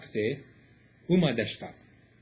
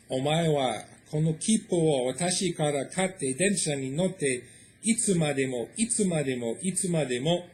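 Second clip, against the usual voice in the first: horse father; 2 semitones higher than usual. Acted. Horse-father lectures the child.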